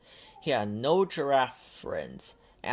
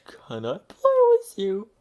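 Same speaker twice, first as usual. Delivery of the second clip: higher, louder big booming ask; 8 semitones higher, 7 dB louder than usual. Acted. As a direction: call out big to sound like an elephant. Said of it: "in a big, loud voice".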